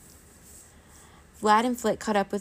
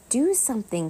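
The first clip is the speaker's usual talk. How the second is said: high, forceful plea; loud, pitched-up creature urging; urgent hiss; 4 semitones higher, 6 dB louder than usual. A narrator's reading. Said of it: "Flit hissed".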